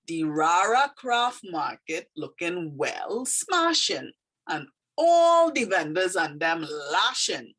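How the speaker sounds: slow Trini dialect with drawn-out key words. Shown as a demonstration. Teacher reading a poem aloud to learners, in Trini dialect. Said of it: "it kind of is dialect".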